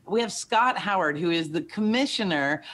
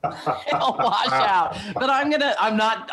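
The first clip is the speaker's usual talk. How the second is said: laughing; 3 semitones higher than usual. Real, not acted. Laughing mid-sentence.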